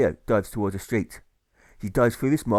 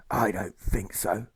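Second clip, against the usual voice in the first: dismissive; 2 semitones lower, slower than usual. Acted. Orator's curt dismissal.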